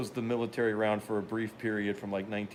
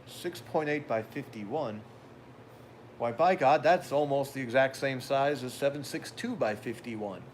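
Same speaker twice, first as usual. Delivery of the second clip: mock gun guy; 3 semitones higher than usual. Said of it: "all of you gun guys are going".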